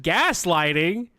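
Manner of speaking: drawn-out, rising disbelief on Gaslighting; slow, questioning Gaslighting with a rise; incredulous echo. Retold or imitated. Repeating his roommate's word back in slow disbelief.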